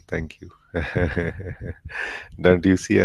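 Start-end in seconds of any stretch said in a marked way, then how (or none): 0.7-2.3 real soft laugh. Real, not acted. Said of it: "I am also crying and laughing".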